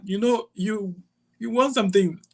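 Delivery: high, light caller voice; imitating the caller. Retells callers' invitation.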